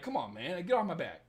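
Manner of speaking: usual speaking voice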